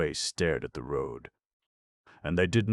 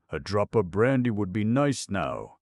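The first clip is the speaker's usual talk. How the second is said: sententious; 6 semitones higher, 6 dB louder than usual. A narrator's reading. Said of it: "he observed sententiously".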